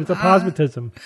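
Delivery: aposematism as uh-POZ-muh-tism; stressed second syllable. Shown as a demonstration. Co-host repeating what they just heard, stressed second syllable. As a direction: insist on aposematism with a punched POZ. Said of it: "I just listened to it".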